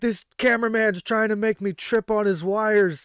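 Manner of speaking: put-on high-pitched shouting in a British accent. Retelling how a wrestler yelled at a cameraman: imitating Saraya yelling in a British accent. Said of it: "she yelled, she's like".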